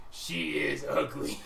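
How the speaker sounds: whispered, slow and breathy; whispered aside. Acted. Ogre whispering to the player, slow. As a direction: whisper it to the GM like a secret. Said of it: "looks at me and goes".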